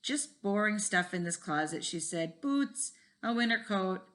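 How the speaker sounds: put-on reading a chapter book aloud to kids; lively read-aloud with voices for each kid; story reading. A narrator's reading. Teacher reads a school mystery to the class, lively.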